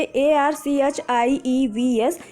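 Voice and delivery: ordinary talk, nothing marked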